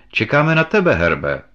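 wife calling from the card table, loud. A narrator's reading. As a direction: call him back to the card table. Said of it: "volala manželka".

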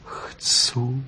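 a soft breathless whispered yes. Acted. Vixen whispers her yes to the fox. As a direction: barely breathe the answer out.

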